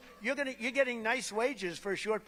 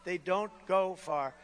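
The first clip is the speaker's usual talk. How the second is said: mocking repeat; slower than usual. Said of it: "That's like a first grader".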